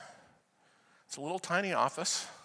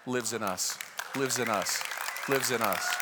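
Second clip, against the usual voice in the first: solemn declaration; 6 semitones lower than usual. Real, not acted. Solemn repeated declaration of scripture.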